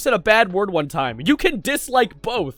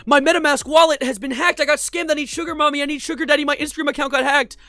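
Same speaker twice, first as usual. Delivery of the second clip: higher, mocking scam-bot chant; higher, sing-song mock of bot comments; 5 semitones higher than usual. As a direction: read it like a dumb spam bot.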